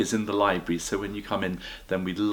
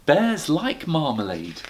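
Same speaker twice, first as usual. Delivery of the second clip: bear voice; 7 semitones higher, slower than usual. Acted. Bear explaining.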